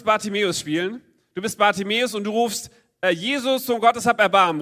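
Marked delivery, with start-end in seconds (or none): 3.0-4.6 vorgemachter Ruf. Shown as a demonstration. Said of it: "Ruf mal ganz laut".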